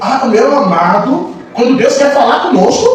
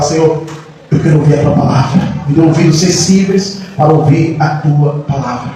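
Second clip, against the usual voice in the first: modelled prayer; 7 semitones lower than usual. Acted. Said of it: "A gente tem que falar".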